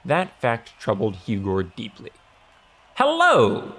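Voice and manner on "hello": high, loud mayoral hello; exclaimed greeting. A narrator's reading. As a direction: hail a crowd from the stage. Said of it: "exclaimed the mayor".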